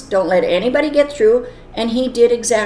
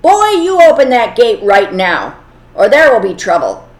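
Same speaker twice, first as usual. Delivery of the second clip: put-on loud angry order to the boy; gruff and angry; 6 dB louder than usual. Rich man on horseback threatens the gatekeeper boy, loud and angry. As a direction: bark it out like a furious rich master. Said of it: "very gruff and very angry".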